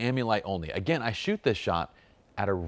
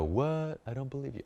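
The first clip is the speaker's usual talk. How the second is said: higher, lightly voiced doubtful client; mock client voice; 6 semitones higher, 4 dB quieter than usual. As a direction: scoff like a disbelieving client. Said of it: "taking that voice on whenever I talk about my clients".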